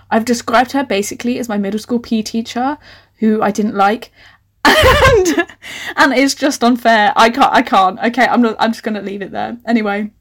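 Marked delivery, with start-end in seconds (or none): 4.6-7.1 laughing. Real, not acted. Laughing at her own writing.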